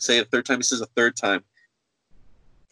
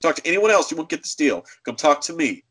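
higher, insistent mock scolding; belittling; 5 semitones higher, faster than usual. Clerk demanding she talk only to him, belittling. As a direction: cut them off and dictate terms, pitched up. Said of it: "I'm gonna belittle you a little".

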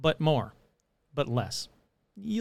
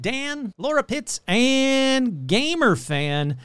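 singsong name list with swooping pitch; shout-out roll call; 3 semitones higher than usual. Acted. Host thanking a long list of supporters, playful roll-call. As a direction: reel off names in playful, swinging announcer cadence.

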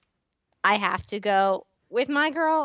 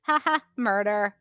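mock Hope murder laugh; 3 semitones lower than usual. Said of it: "she would just be like".

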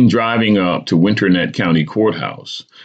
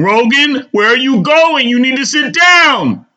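higher, louder urgent mother; a mother begging her son to sit back down; pleading; 5 dB louder than usual. A narrator's reading. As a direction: plead with him to stay put. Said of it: "Alma is calm and pleading".

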